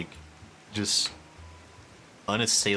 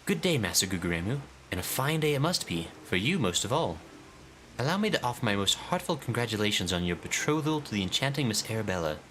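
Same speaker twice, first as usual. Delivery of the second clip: grand, theatrical inspector, higher and proud; pompous detective voice; 3 semitones higher than usual. Acted. Streamer voicing the inspector to his assistant, pompous and grand. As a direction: declaim like a self-important sleuth.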